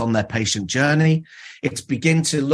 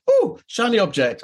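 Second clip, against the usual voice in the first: mock distracted excitement; 8 semitones higher than usual. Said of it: "I'm like".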